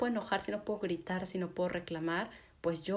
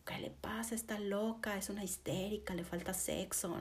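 hushed, softer scandalized muttering voice; scandalized judgment; 2 semitones higher, 6 dB quieter than usual. Retold or imitated. People judging an angry woman, in hushed scandalized tones. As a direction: gossip under your breath, shocked and judging.

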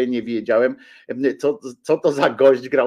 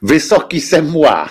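slow, louder mock-French delivery; savouring the quote, loud and drawn out; mimicking the French actor; 3 semitones higher, 8 dB louder than usual. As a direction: ham up the punchline like the Frenchman. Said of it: "za którymś razem właśnie powiedział".

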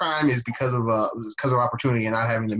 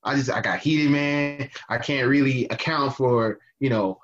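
mocking Yoho's apology. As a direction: play him off as a smug dude shrugging it off. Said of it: "his apology was basically that".

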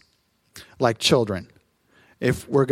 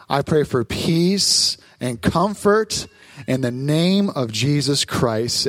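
prayer; 3 semitones lower than usual. Acted. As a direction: pray it out low and unhurried. Closing prayer before the sermon.

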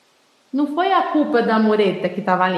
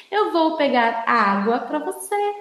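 gentle, clear; 3 semitones higher, slower than usual. Shown as a demonstration. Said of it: "falando corretamente".

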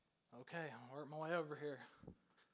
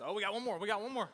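louder, higher call to the room; 5 semitones higher, 9 dB louder, faster than usual. Real, not acted. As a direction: call it out to the back row. Calling out to the room.

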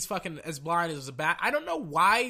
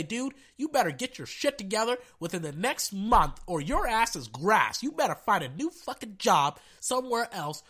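imagined angry rant; 3 semitones higher than usual. Acted. Scolding the league's officiating chief, angry yelling. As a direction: tell him off like you mean to fire him. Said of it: "backhand Al Riveron in his face and say".

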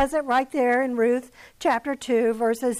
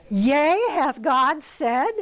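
lightly voiced tempting serpent, drawn out; a slow, sly hint of the serpent; 3 dB louder, slower than usual. Serpent tempts Eve, a touch sly and slow. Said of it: "the first thing the serpent said to Eve".

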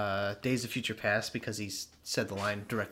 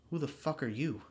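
imitating a stupid line; 5 semitones higher than usual. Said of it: "He says it so stupidly".

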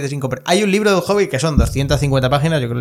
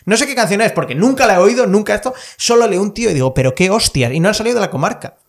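exasperated rant; 7 semitones higher, 4 dB louder than usual. Real, not acted. Exasperated rant about Tolkien.

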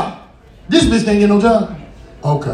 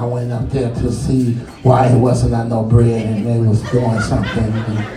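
put-on tattling kid; 10 semitones lower than usual. Little girl tattling to brother.

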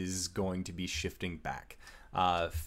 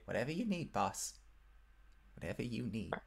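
goblin voice; 2 semitones higher, 10 dB quieter, faster than usual. Acted.

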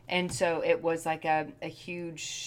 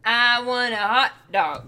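whiny craving; 4 semitones higher, 6 dB louder, slower than usual. Real, not acted. Craving food.

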